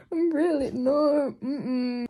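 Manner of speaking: choked-up crying protest; real tearful refusal. Real, not acted. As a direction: fight back tears. Crying over the book.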